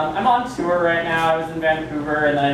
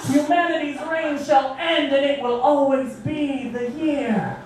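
Bunnicula; 8 semitones higher, slower than usual. Acted. Persona poem climax.

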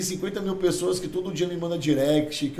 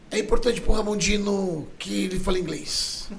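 lightly imitated podcast quote, pitched up; measured mock quotation, raised in pitch; Renato Cariani; 4 semitones higher than usual. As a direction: quote him with a slightly higher voice. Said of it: "o Renato Cariani falou um dia no podcast".

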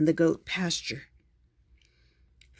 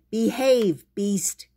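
commanding call; 4 semitones higher, 4 dB louder, slower than usual. Acted. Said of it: "She said".

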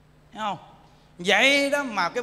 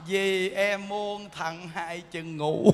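sweet promise; 3 semitones lower, much slower than usual. Pretend. Wife sweetly promising her husband she won't be angry. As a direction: coo it gently like a wife making peace, half laughing.

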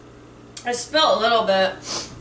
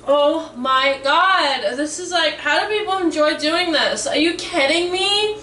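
higher, incredulous, appalled at the taste; disgusted disbelief; 4 semitones higher than usual. Real, not acted. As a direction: complain about the awful drink in real disbelief. Disgusted reaction after drinking the can.

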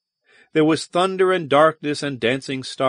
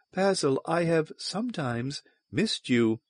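soft, higher-pitched, intimate; hushed, tender confession; whispered; 5 semitones higher, 6 dB quieter than usual. A narrator's reading. Valduma says she has missed Basil, whispered. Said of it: "whispered Valduma".

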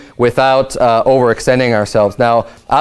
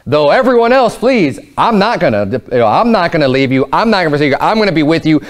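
vociferous insistence; 3 semitones higher than usual. Retold or imitated. Peter pledging to stay beside Jesus, vociferous insistence. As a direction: protest your loyalty, pitch jumping up at first. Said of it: "Peter very vociferously is saying".

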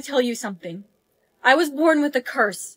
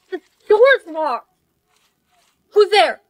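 scared calling; 4 semitones higher, 3 dB louder than usual. Acted. Trapped, calling to a stranger.

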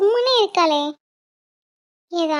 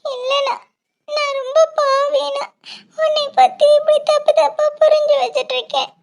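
tearful pleading. Acted. Sister keeps crying, apologizing.

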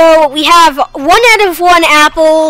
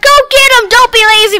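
high-pitched mock yell, somewhat louder; imitated viewers' yelling; 9 semitones higher, 4 dB louder than usual. Gamer mimics viewers screaming at him for being lazy, mock yell. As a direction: imitate nagging viewers hollering at you. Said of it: "you're probably screaming".

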